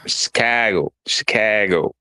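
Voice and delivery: attempted Chicago accent with a fronted "a" in Chicago. Host trying out his co-host's hometown word, mock Chicago accent. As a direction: say Chicago with a mock local "a", like "Chi-CAA-go". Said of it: "how to do the Chicago accent".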